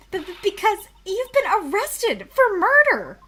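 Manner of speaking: stammering, high and loud in alarm; panicked stammer. Acted. Defendant blurts panicked accusation at Max, stammering loud.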